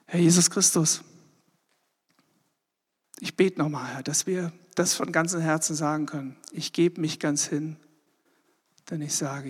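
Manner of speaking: prayer. Acted. Pastor leads closing prayer.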